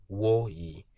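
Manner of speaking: "wo" high, then "yi" low; high-low tones. Shown as a demonstration. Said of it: "High intonation and low intonation".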